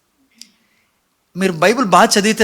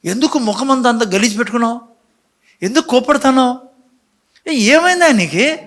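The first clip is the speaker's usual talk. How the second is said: God questioning Cain; 5 semitones higher than usual. Retold or imitated. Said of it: "అని దేవుడు".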